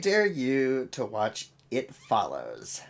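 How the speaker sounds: put-on slow, drawn-out teen girl voice; lightly put-on teenage girl voice. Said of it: "it's like the teenage girl voice".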